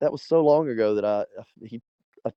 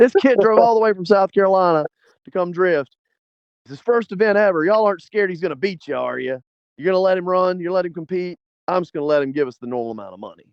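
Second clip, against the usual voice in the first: loud yell calling out, pitched higher; 5 semitones higher, 3 dB louder than usual. Retelling how a man yelled out to everyone about a first-time drifter, imitating the yell. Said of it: "he starts yelling out to everybody".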